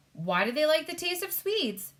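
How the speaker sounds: high, loud puzzled king; baffled King of Sweden. Acted. King of Sweden asking why Swedes, baffled high voice. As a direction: ask in bewilderment.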